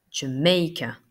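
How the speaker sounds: "Jamaica" opening on a weak "uh", then stressed MAI; first A as schwa. Shown as a demonstration. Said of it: "Et pareil, E". (« Jamaica » : premier A dit « e », deuxième syllabe forte)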